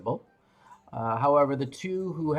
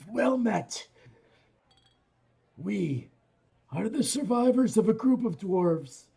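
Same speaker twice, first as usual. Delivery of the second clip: speaking Dwarvish; 3 semitones higher than usual. Acted. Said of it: "switching over to Dwarvish".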